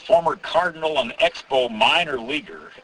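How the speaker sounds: a hint of a public-address introduction; PA announcer. Host re-enacts introducing his old buddy on the PA, lightly voiced announcer. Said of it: "right on the P A and say".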